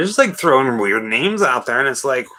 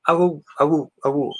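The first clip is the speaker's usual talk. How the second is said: werewolf howl; 2 semitones higher than usual. Pretend. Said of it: "That's my werewolf".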